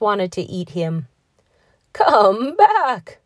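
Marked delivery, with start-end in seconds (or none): 1.9-3.2 high, loud horse's call. A narrator's reading. Horse calls after the gingerbread man, high and loud. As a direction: shout him back like a horse. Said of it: "said the horse".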